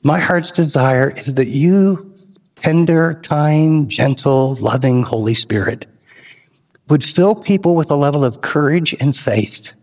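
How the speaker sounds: closing prayer to God, earnest and low. Real, not acted.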